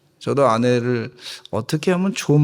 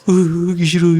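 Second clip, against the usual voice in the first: hammed-up sulky refusal, a bit louder; preacher mimicking reluctant men in the pews; mock reluctant whine; 3 semitones higher, 5 dB louder, much faster than usual. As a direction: whine it like a grudging husband. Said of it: "이러시는 것 같아요".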